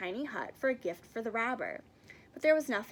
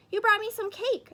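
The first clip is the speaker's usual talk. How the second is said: pleased bear; 11 semitones higher, 8 dB louder than usual. Acted.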